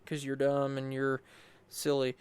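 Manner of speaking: soft, understated mock trash talk; cocky confidence. Player retelling his confidence against Mimikyu, understated cockiness. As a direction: toss the taunt off casually, softly. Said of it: "I'm all confident".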